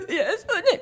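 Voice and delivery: high mock sob; tearful sobbing. A grieving leper calling Jesus, acted sobbing. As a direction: gasp and cry the name through acted sobs. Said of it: "어떤 사람은 슬퍼서".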